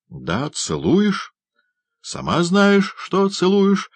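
high, rising, insistent protest; whining retort. A narrator's reading. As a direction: throw the blame back at her loudly. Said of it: "возразил Ноэ". (возражая, плаксиво и громко)

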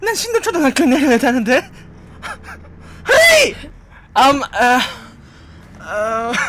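panicked, high and loud gyopo voice; Korean American accent. Pretend. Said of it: "한번 따라해주실 수 있으세요?".

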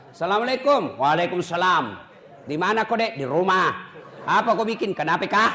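brisk, firm phone answers; firm voice demo. Shown as a demonstration. Preacher showing women how to answer men firmly on the phone. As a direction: answer short and no-nonsense. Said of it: "Coba beda kasih tegas".

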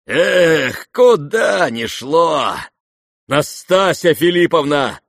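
loud high cry, slow; reckless shout. Acted. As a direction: go for broke. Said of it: "вскричал он".

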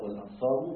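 "والأنصار" ending in -u, wal-ansaru; reading with damma. Shown as a demonstration. Teacher demonstrating Umar's reading, "والأنصار" with damma. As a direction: say "والأنصار" with a final u. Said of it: "بالضم".

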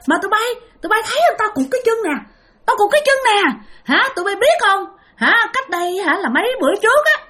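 high, eerie ghost woman's voice; a ghost mother begs four young men for milk, high and eerie. Retold or imitated. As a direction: speak high and pleading like a hungry ghost mother. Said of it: "mà bà nói rằng á là".

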